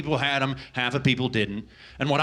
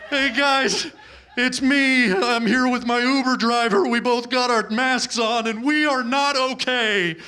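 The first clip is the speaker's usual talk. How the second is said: hammed-up emotional video confession, pitched high; mock tearful; 6 semitones higher than usual. Passenger filming himself crying for TikTok, mock tearful and high. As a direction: play a weepy TikTok selfie update. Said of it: "every time I cry, I have to film myself".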